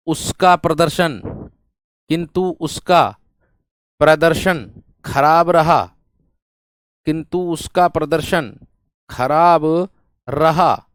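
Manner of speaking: drawn-out, very slow reading; slow dictation. Shown as a demonstration. Teacher dictates the contrast clause very slowly. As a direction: stretch the last words out slowly. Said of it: "देखिएगा".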